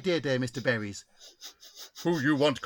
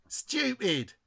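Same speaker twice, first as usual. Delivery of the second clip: Scouse medium; 5 semitones higher, 3 dB quieter than usual. Acted. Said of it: "the only reason she's Scouse".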